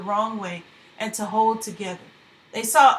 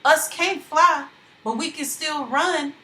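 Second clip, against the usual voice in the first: shouted; 6 semitones higher, 4 dB louder than usual. Acted. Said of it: "T K shouted".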